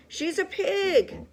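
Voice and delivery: high, loud, slow scornful yell; contemptuous shout. A narrator's reading. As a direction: spit it out with contempt. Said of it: "shouted Eugenia".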